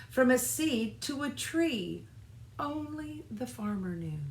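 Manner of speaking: lightly voiced tree full of wonder; young tree voice. Little Seed telling Fox how he grew, light wonder.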